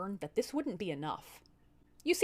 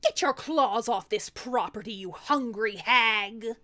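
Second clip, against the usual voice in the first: louder, slow snarl; fierce defence; 6 dB louder, slower than usual. Acted. Demoness warning her sister away from the child, fierce. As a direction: drive the intruder off.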